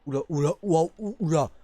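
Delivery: startled. Real, not acted. Startled by the teleporting baby with red eyes. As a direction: react fast, shaken and excited.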